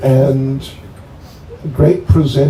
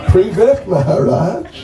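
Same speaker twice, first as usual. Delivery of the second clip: cheerful greeting; 4 semitones higher than usual. Shown as a demonstration. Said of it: "greeting the guest as example".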